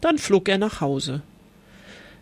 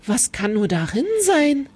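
curious call; 4 semitones higher than usual. Acted. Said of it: "rief die Schildkröte".

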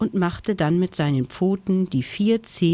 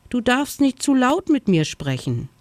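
timid snow hare; 7 semitones higher than usual. A narrator's reading. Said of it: "sagte er".

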